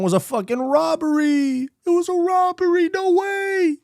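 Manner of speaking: very high, drawn-out wail of disbelief; high-pitched protest. Real, not acted. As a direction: cry foul way up in falsetto. Mock outrage at one wrong pick.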